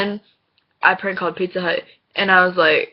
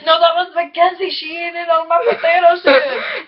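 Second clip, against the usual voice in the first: put-on high, loud Hispanic-accented whine; hammed-up high protest, imitated Hispanic accent; mock Hispanic accent; 10 semitones higher, 6 dB louder than usual. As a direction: mimic an indignant friend in a Hispanic accent. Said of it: "making fun of his Hispanic accent".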